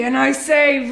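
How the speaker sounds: chatty Long Island mother telling all; dramatic housewife with drawn-out punchlines; Sheila, Long Island housewife. Acted. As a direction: play a confiding, theatrical suburban mom. Plays monologue housewife Sheila.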